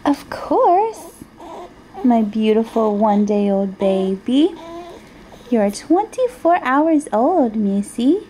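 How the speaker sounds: choked up with love; tearful. Real, not acted. Mother tearing up over newborn.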